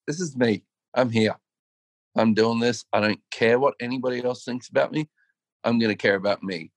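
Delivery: defiant, quickening "This is me."; bold declaration. Retold or imitated. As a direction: say "This is me." out boldly and rush the rest. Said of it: "where she just went".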